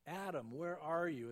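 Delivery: gentle, concerned call; God as a paramedic seeking beaten Adam; caring paramedic. Retold or imitated. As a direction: call out like a rescuer finding someone hurt. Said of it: "as a paramedic coming on a scene".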